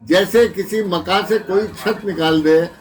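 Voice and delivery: emphatic, measured mushaira declamation; ghazal recitation. Acted. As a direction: recite the couplet out to the hall. Recites ghazal couplet to audience.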